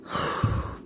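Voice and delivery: soft breathing-out sigh; quiet exhale; calming sigh. Shown as a demonstration. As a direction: let the breath go. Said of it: "I start to breathe".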